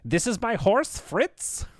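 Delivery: high-pitched, lilting attempt at an accented actor; Christoph Waltz. Fan trying a favourite actor's line, rough impression. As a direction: have a rough go at a famous actor's voice. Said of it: "do a Christoph Waltz impression".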